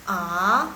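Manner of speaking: A gliding upward from low; rising A, like a question; second tone. Shown as a demonstration. Teacher showing tone two, A rising. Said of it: "nada kedua".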